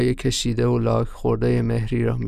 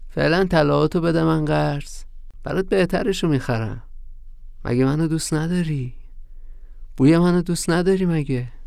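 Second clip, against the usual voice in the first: coaxing; 5 semitones higher than usual. Acted. Young man wheedles old woman.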